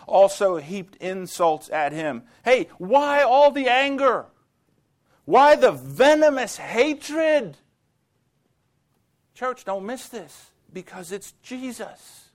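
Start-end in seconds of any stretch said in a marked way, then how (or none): 2.4-7.5 impassioned. Real, not acted. Preacher challenging congregation. 9.3-12.3 much softer, hushed and earnest; preacher quietly driving home his point; hushed emphasis. Real, not acted.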